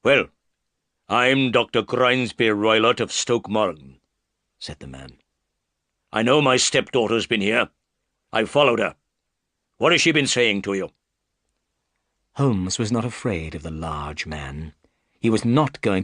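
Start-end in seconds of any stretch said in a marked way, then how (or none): 0.0-10.9 darker bullying man's voice; a big bully trying to intimidate; hint of a menacing brute. Roylott confronts Holmes about his stepdaughter, menacing.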